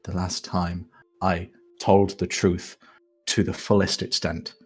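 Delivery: light Irish twang instead of posh; Irish accent. Acted. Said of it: "his voice distinctly changes from the posh voice ... I'm trying for a more Irish twang".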